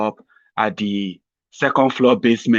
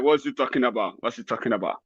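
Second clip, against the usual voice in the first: puzzled viewer; 7 dB quieter than usual. Retold or imitated. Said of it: "sitting down there like".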